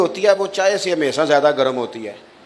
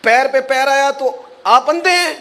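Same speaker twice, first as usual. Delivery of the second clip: high, loud rebuke from the woken elder; indignant old man; 10 semitones higher, 4 dB louder than usual. Retold or imitated. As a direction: scold him for stepping on your foot. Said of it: "کہا".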